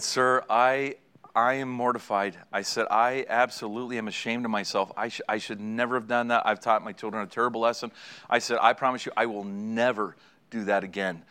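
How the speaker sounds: low, subdued, mildly hammed-up remorse; mortified apology. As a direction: act out a humble promise to the officer. Retold mortified apology to officer.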